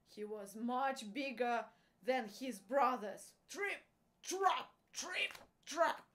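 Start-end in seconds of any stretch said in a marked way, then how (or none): 3.5-6.1 loud, emphatic footsteps, raised in pitch; heavy trip-trap. A narrator's reading. Big billy goat crossing the bridge, loud heavy trip-trap. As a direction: stamp out each word loudly.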